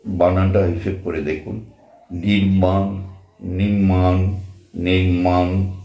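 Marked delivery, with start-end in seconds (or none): 2.1-5.7 নির্মাণ tried out in different ways; several ways of saying it. Shown as a demonstration. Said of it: "অনেক কিছুভাবে বলা যায়". (নির্মাণ শব্দটা নানাভাবে উচ্চারণ)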